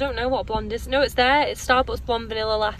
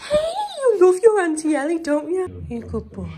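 cooing to a dog; 4 semitones higher, 5 dB louder than usual. Real, not acted. Auntie greeting the visiting dog, cooing. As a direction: coo over a beloved pet.

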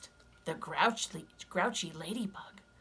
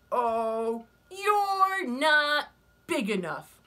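loud, high, slow and sneering; scornful ladybug voice; 7 semitones higher, 8 dB louder, much slower than usual. Acted. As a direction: dismiss them from up high.

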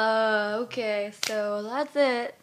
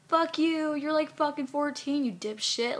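higher, indignant outburst; angry rebuke; 5 semitones higher than usual. Real, not acted. Woman telling off boastful young models, angry. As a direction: tell them off, voice pitched up in anger.

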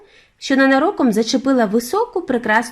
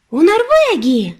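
put-on boy's loud high cry, drawn out slowly; shouted guess; 9 semitones higher, 6 dB louder, slower than usual. A narrator's reading. Boy shouting his guess to his grandmother, loud. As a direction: shout the answer triumphantly. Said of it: "крикнув я".

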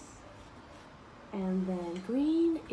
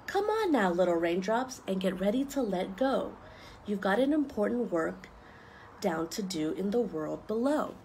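a touch of booming thunder, louder; lightly voiced thunder. Thunder calling raindrops out of the cloud, lightly booming. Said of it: "thunder rumbled and boomed out very loud".

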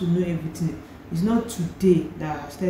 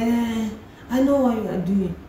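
higher-pitched, louder imitation of an official; retold accusing officer; 5 semitones higher, 4 dB louder than usual. Officer suspicious of young traveler, mock accusing. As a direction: put on a knowing officer's raised voice.

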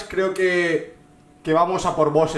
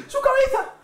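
laughing. Real, not acted. Gory kill, laughing.

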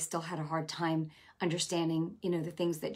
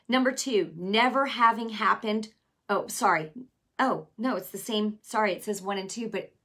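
ordinary delivery

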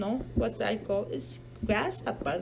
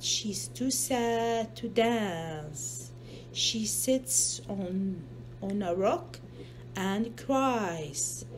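slow, softer sad storytelling; softly sad; 3 dB quieter, slower than usual. Acted. Mother to child, reading that Hippo is sad, slow and soft. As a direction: let the sadness slow you down.

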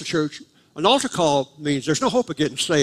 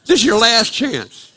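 slow, loud, high mock ultimatum; drawn-out, raised-voice last call; final-warning imitation; 8 semitones higher, 7 dB louder, slower than usual. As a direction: proclaim it like an altar-call preacher. Repeats the preacher's final warning.

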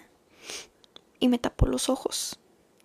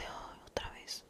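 barely breathed, slow and exasperated, almost soundless; weary inner sigh; 21 dB quieter, slower than usual. Retold or imitated. Thinking to herself as Pepe proposes again, weary whisper. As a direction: mutter it to yourself like you can't believe it's happening again.

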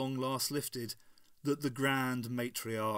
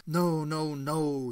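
empathetic; 2 semitones higher, 5 dB louder, much slower than usual. A narrator's reading. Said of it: "he said empathetically".

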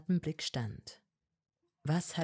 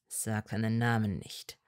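lower, strained Malfoy voice; pressed out; 7 semitones lower than usual. A narrator's reading. Malfoy to Hermine, pressed out low. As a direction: force the words out low. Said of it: "presste Malfoy schwer hervor".

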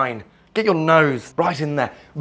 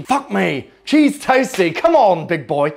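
mock guest; 3 semitones higher than usual. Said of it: "now you're probably thinking".

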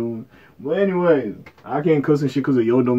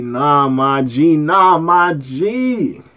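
slow disbelief; 4 dB louder, much slower than usual. Real, not acted. Repeated slow refusal.

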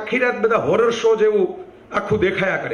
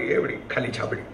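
almost whisper it, as a private aside; hushed aside; 7 semitones lower, 7 dB quieter than usual. Retold or imitated. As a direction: drop to a soft breathy hush on એવડી ખાલી છાબડી. Narrator savoring the empty basket.

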